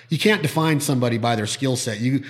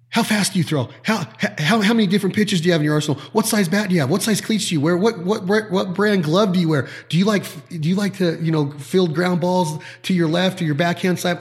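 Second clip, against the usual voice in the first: eager fan questions; 5 semitones higher than usual. Retold or imitated. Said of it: "you're like".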